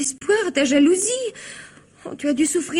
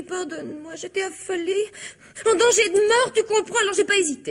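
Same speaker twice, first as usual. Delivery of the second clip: tearful plea; 3 semitones higher than usual. Acted. Wife begging forgiveness, tearful.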